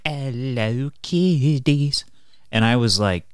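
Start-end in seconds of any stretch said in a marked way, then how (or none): 0.0-2.0 high, put-on greeting to children; creepy host voice. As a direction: sing it out like a sly kids' show host. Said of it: "he's like".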